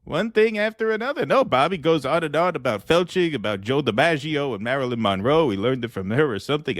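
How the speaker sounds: Donald Trump voice. Acted. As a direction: play Trump chatting up a guest, pleased with himself. Trump voice complaining about Bobby.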